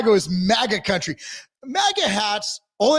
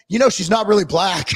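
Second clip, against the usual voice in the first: 1 mock taunt; 4 dB louder than usual. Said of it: "go up to them and said".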